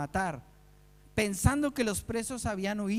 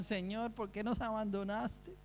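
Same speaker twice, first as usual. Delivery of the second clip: mock murmured complaint; 6 dB quieter than usual.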